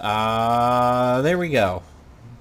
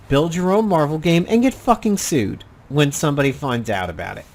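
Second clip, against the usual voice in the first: heated, higher-pitched rant; blunt irritation, pushing louder on the apology; pissed off; 3 semitones higher, 4 dB louder than usual. Real, not acted. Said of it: "sounds like I'm pissed off".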